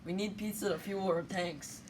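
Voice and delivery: high, loud, hammed-up Italian accent; a frantic Italian begging for pizza; jolly Italian pizza chef. Italy player in a pizza-chef persona.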